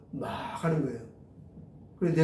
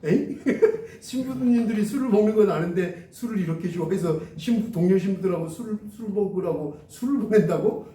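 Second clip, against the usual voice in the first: amused, incredulous retold question; startled disbelief; 2 semitones higher than usual. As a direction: laugh in bafflement, then question it. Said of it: "제가 깜짝 놀랐어요".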